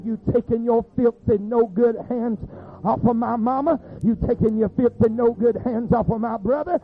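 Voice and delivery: loud, driving, repetitive preaching cadence; forceful preaching rebuke. Acted. Preacher ordering the devil off his family, forceful. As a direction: hammer each order out at the devil.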